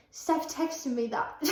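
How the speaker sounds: slow, badly faked British accent; drawn-out mock-British delivery; attempted British accent. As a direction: have a shaky go at sounding British. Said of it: "not gonna do a British accent".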